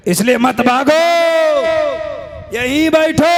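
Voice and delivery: rising shout with long-held endings; shouted appeal. Real, not acted. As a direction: holler it to stop a crowd leaving. Orders leaving crowd to sit.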